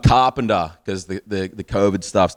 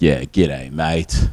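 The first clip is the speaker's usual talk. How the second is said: put-on kid's flat reply; 5 semitones lower, much slower than usual. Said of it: "And he's like".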